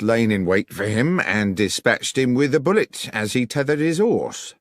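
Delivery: lightly voiced officious policeman; stiff, self-important reply; sergeant, cool. Sergeant Berry answers Holmes, lightly voiced and officious.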